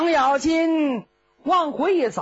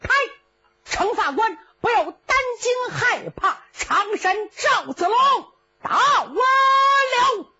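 thunderous battle cry; 11 semitones higher, 4 dB louder than usual. Acted. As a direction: roar it from horseback. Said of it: "高声断喝". (赵子龙高声断喝)

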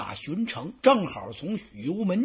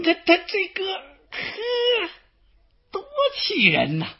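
sputtering, much higher, choked with rage; spluttering fury; 13 semitones higher, slower than usual. Acted. Xu Chu chokes with rage at Xu You's boast. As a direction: stammer as if too angry to speak.

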